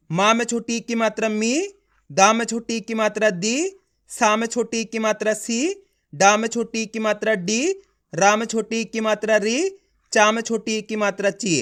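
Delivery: teacher's recitation, ending each phrase on the joined syllable like "री"; syllable drill. Shown as a demonstration. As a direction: chant each letter plus vowel sign, landing on "मी", "दी", "सी". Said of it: "जिस तरीके से मैं इसका उच्चारण कर रहा हूँ".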